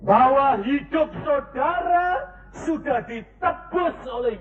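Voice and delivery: high, slow, crying out to the church; impassioned sermon, voice breaking; fervent preaching. Acted. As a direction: preach it with tears in the voice. Preaching at full force.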